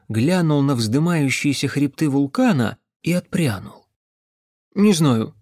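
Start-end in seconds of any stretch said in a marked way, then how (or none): 4.7-5.3 short, mild grumble; grumbled. Acted. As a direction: grunt it out reluctantly. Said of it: "буркнул он". (буркнуть)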